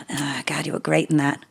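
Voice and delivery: soft whispered praise; whispering. Real, not acted. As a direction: whisper it fondly. Whispered compliment.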